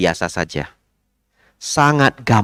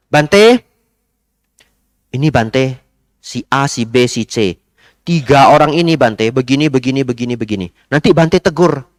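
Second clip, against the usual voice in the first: lightly voiced eager young man; young man reporting; 3 dB louder than usual. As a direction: ask the monk to scold others. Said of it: "Ada anak muda, tiba-tiba datang".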